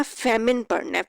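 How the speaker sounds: फेमिन with a short i, not फेमाइन; फेमिन said as fe-min, short second vowel; say famine right. Shown as a demonstration. Teacher correcting फेमिन for her students. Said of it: "इसको फेमाइन नहीं पढ़ना".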